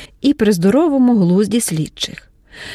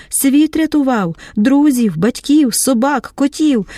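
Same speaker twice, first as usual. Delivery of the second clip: hysterical accusation. Acted. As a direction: hurl the reproaches at him. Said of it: "уже кричить істерично". (істеричний крик докору)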